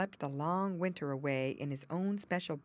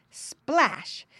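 lively exclamation; 8 semitones higher, 6 dB louder than usual. A narrator's reading. Narrated splash sound.

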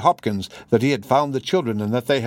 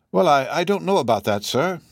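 lightly voiced housekeeper, hesitant and deferential; politely doubt the gentleman, lightly in character; doubtful housekeeper; 5 semitones higher than usual.

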